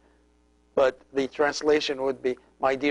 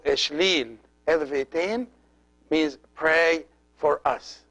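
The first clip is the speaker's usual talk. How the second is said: slow demo; slower than usual. Shown as a demonstration. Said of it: "teaching phrase".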